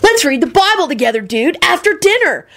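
high, goofy eager dude call; hollering. A narrator's reading. Diner invites servant to Bible study, hollering. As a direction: holler it high, stretching the end. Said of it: "Kenny hollered".

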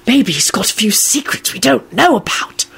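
hint theatrically at a scandal; dramatic stage whisper. A narrator's reading. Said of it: "George whispered dramatically".

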